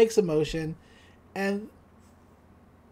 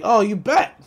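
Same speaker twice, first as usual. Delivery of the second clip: louder, hammed-up eager agreement; eager Stan; 2 semitones higher, 8 dB louder than usual. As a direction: snap it up gleefully. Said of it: "And he's like".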